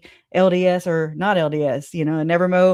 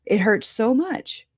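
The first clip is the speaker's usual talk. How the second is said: near tears; 4 semitones higher than usual. Real, not acted. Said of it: "it makes me wanna cry".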